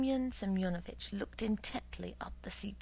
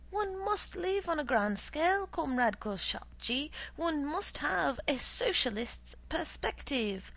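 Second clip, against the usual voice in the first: blustering boss; 3 semitones higher, 4 dB louder than usual. Acted. Boss lecturing subordinate.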